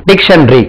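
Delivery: டிக்ஷனரி in three syllables, dik-shun-ri, falling at the end; டிக்ஷனரி clipped to dik-shun-ri with a falling close; correct pronunciation. Shown as a demonstration. Teacher repeating the right way to say dictionary, demo. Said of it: "டிக்ஷனரிக்கு உச்சரிப்பு பாருங்க".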